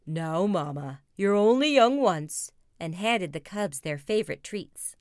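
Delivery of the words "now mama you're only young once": lightly voiced indulgent dad; smiling Papa Bear. Papa excusing the cubs to Mama, lightly smiling voice. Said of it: "Papa Bear smiled and said".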